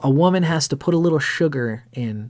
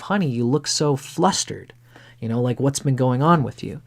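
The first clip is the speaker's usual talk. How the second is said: soothing whisper. Retold or imitated. Wife soothing flustered husband.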